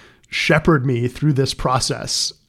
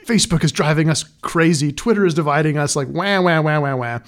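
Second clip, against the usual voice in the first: self-mocking complaint tailing into wah-wahs; mock whining; 2 semitones higher than usual. Writer mocking his own pretentious essay, mildly whiny. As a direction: lightly parody your own griping. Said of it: "It was very pretentious".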